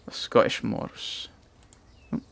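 hushed whisper, slow. Real, not acted. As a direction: breathe it out slowly. Whispered aside while playing.

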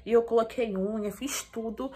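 talking with a dental retainer in; speech slightly blocked by a retainer; wearing a retainer. Real, not acted. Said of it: "tô falando desse jeito porque eu tô com o aparelho móvel".

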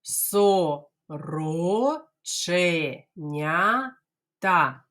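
сороченята very slow, syllables apart; teacher drills сороченята slowly. Shown as a demonstration. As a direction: drag out each syllable. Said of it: "Ану".

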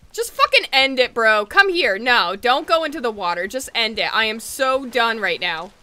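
loud frustrated outburst; exasperated rant. Real, not acted. Player ranting at the game after losing the baby. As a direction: vent your fury at the game.

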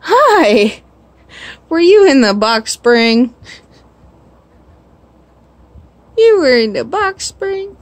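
high, loud excited pet talk; delighted squeal at the pet; excited high greeting. Real, not acted. Found pet in box spring.

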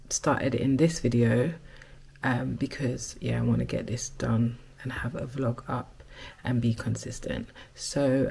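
frog in throat, croaky. Real, not acted. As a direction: talk through a croaky throat. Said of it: "so croaky right now".

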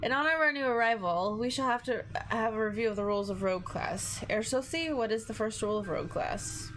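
lightly voiced German schoolmaster; a hint of German accent. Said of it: "Should work on my German accent".

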